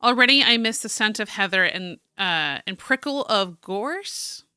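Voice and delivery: theatrical journal read-aloud; story narration. Acted. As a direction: read it out like a dramatic diary. Reads journal aloud as character.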